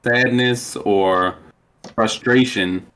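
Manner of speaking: audio cutting out; choppy broken-up mic; glitching audio. Real, not acted. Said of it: "Did he cut out again?".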